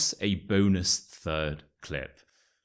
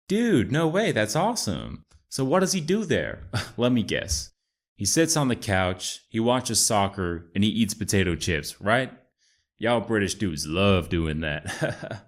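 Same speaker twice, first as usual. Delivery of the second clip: put-on American accent. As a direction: play Chad, an American bro. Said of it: "my amazing American accent".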